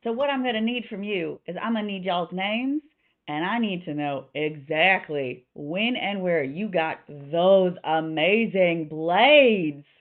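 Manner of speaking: slightly Southern innkeeper making demands; Louisa. Acted. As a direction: stretch the last words in a Southern accent. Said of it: "that is the accent I'm going with".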